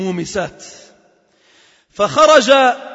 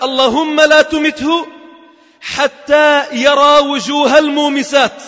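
a mother's slow, raised curse in anger; angry mother's curse; 3 semitones higher, slower than usual. Acted. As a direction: call down the curse slowly, hurt and raised. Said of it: "فغضبت". (دعاء أم غاضبة ببطء وبصوت مرتفع)

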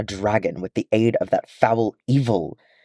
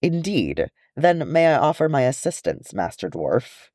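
cool elf; 5 semitones higher than usual. Acted. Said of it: "raised an elegant eyebrow".

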